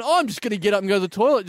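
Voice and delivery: quick breezy cover story; fake casual excuse. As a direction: rattle it off as a cover.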